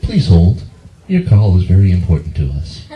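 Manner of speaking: flat recorded hold message; automated voice. Retold or imitated. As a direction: deliver like a phone robot. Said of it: "it actually says".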